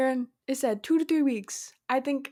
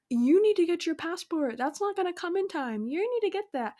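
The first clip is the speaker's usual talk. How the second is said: worried friends mimicked; 6 semitones higher than usual. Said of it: "everyone's, like, freaking out".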